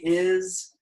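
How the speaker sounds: winded from counting aloud; out of breath. Real, not acted. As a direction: breathe hard between the words. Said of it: "Whew, man, I'm out of breath".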